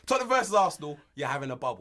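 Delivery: loud Cockney model line; Cockney accent. Shown as a demonstration. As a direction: demonstrate Cockney for a learner to copy. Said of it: "a bit of a Cockney accent".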